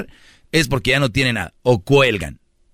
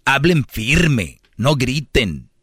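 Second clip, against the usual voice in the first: firm speech; much slower than usual. Shown as a demonstration. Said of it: "Por eso yo les digo".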